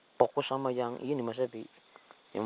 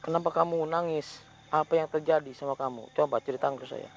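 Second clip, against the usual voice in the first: louder, pleading questions to the spirit; firm calling out; 5 semitones higher, 3 dB louder than usual. Real, not acted. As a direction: coax the ghost to speak, firmly. Questioning the ghost aloud.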